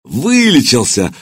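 slow, glad cry; joyful exclamation. Acted. Centurion greeting the healed prince, slow joyful exclamation. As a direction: exclaim it with delight, drawn out. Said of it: "обрадованно воскликнул".

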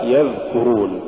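يذكرون with the dhal kept brief; moderately flowing dhal in يذكرون; balanced dhal. Shown as a demonstration. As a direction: say يذكرون without dragging the dhal. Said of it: "الصواب".

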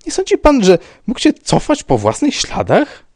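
high, loud, agitated theorising; flustered babbling. A narrator's reading. Rybka suggesting the man walked backwards, flustered babbling. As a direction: grasp anxiously at an explanation. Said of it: "zaczął bełkotać pan Rybka".

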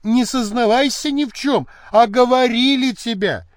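urgent plea. A narrator's reading. Maid pleads urgently.

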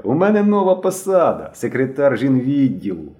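put-on high, loud boyish boasting; excited shout. A narrator's reading. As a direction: announce it proudly, stretching the end. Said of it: "крикнув Генка".

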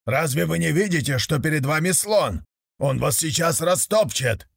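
чуть выше, с напором прогнать с дороги; погонщик с нажимом предупреждает; грозный погонщик. Acted. Погонщик гонит нищих. (сердитый окрик погонщика)

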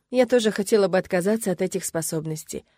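usual speaking voice

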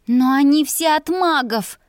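high-pitched mouse-like protest; squeaked like a mouse. Acted. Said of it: "пропищала я мышью".

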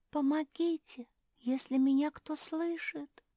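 high, thin squeak calling for help; a small trapped frog squeaking for help; tiny squeaky voice. Acted. Frog pinned by a rock calls for help in a thin squeak. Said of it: "запищал тоненький голосок".

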